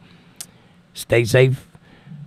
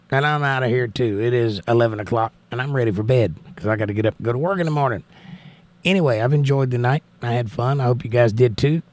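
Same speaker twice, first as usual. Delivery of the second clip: crackling voice; faster than usual. Real, not acted. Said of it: "sorry for the crackling in my voice".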